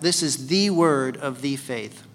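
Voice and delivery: slow, with "the" said as THEE both times; measured emphasis on "the" before "word" and "faith"; stress on THE. Shown as a demonstration. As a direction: lean on each "the" deliberately. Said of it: "it's like that".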